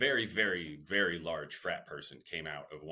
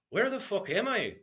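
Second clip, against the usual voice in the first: higher, loud confused outburst; blurted panic; 13 semitones higher, 5 dB louder than usual. Retold or imitated. Waking on a strange couch, blurting at the frat guy.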